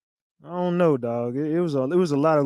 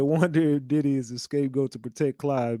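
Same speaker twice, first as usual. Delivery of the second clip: reading a comment; 4 semitones lower, 4 dB quieter than usual. Retold or imitated. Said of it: "They said".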